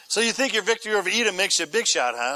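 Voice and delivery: fast, scoffing jab at a boastful king; mocking sneer. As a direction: rattle it off like a taunt. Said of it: "is what he's saying".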